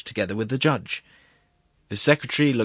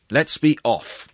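loud, high, drawn-out call; urgent cry; 6 semitones higher, 6 dB louder, much slower than usual. A narrator's reading. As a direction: cry out, bursting to leave. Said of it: "he cried".

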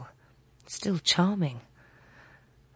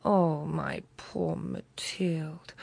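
deeply moved; much slower than usual. Acted. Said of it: "deeply moved".

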